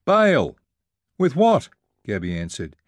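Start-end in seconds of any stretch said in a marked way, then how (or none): 0.0-0.6 high, loud urgent order; sudden alarmed shout; panicked yell. A narrator's reading. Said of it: "Out of the depths of my panic, I yelled". 1.2-1.7 high, loud frantic retort; urgent raised-voice question; shouted question. A narrator's reading. Panicked shouted exchange in swamped canoe.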